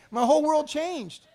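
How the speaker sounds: dramatic emphasis. Retold or imitated. Retelling a life-changing moment.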